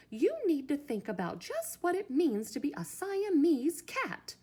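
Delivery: loud, high, emphatic mother's lecture; lecturing. A narrator's reading. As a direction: hammer each item home like a scolding mother. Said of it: "The lecture went on and on".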